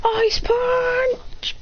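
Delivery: high, drawn-up battle call; attack call. Retold or imitated. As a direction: announce the special move high. Figure calls out his attack.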